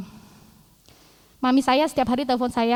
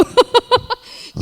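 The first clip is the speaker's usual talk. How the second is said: bright high laughter; 11 semitones higher, 6 dB louder than usual. Real, not acted. Telling the congregation the town isn't on maps, high laugh. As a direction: laugh at the joke about the map.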